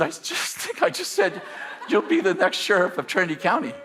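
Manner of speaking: high, laughing disbelief at his own words. Retold or imitated. Telling his friend what he just said, laughing. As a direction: laugh through the retold answer, baffled. Baffled reply to friend's question.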